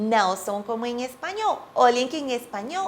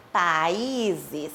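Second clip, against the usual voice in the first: "Países" with a strong stressed "í", pa-Í-zes; ênfase no í; 4 semitones lower than usual. Shown as a demonstration. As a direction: give the "í" in "Países" extra force. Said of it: "preciso ajudá-la com um pouquinho de força".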